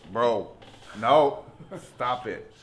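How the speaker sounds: loud, slow, high protest through a laugh; half laugh, half shout him off; laughing refusal. Retold or imitated. Refusing the masseur at the pho place, loud and laughing.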